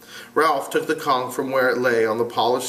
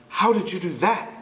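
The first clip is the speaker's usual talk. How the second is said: put-on boy voice; 7 semitones higher than usual. Ralph voiced.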